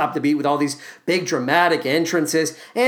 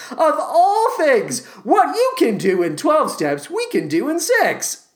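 mocking the lyric; 9 semitones higher than usual. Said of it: "knock the twelve-step program".

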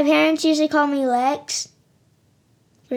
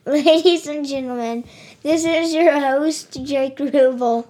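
slow TV announcer voice. Shown as a demonstration. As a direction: introduce the show like TV. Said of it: "I thought for sure that I was watching a T V show".

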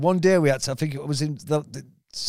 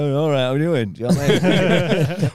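a king played in his own accent, louder; mock regal greeting in broad Scouse; 4 semitones higher, 7 dB louder than usual. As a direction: deliver a royal line in plain Liverpool voice. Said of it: "this is how I was gonna talk".

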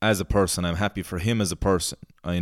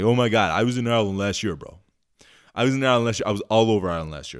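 tourist impression; 3 semitones higher, much faster than usual. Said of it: "the impression of this guy is on point".

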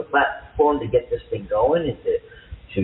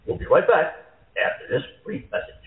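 radio announcer; 3 semitones higher than usual. Shown as a demonstration. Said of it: "I'm rehearsing".

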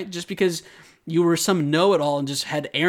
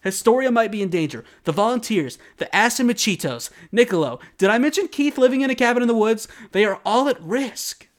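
higher, louder, mock panic; hammed-up panic, higher and louder; frantic Armin; 6 semitones higher, 5 dB louder than usual. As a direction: rattle off the risks in alarm. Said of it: "He goes on".

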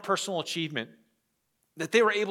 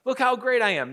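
higher, bragging show-off voice; mock boasting; 6 semitones higher than usual. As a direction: puff yourself up like a braggart. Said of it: "These Judaizers put on a good face".

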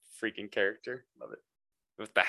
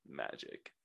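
whispered; 8 semitones lower, 12 dB quieter than usual. Real, not acted. Shrugging punchline.

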